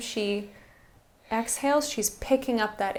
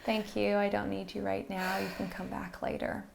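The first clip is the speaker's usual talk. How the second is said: gentle and kind; 5 dB quieter than usual. Shown as a demonstration. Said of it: "you can say something like".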